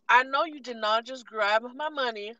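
retold outrage.

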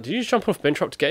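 high, quick incredulous question; retold astonished outburst; mock disbelief. Retold guy amazed by the stunt.

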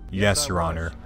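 lightly voiced stiff witness reply; mock defendant voice. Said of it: "It's just like".

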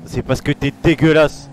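drawn-out acted insult; slow, in-character contempt; in-role insult. Officer taunting a prisoner in role, slow acted insult. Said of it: "c'est dans le rôle".

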